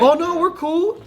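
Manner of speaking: very high, slow innocent voice; fake-casual denial. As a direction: play it innocent and sing-song. Kid covering up for adult.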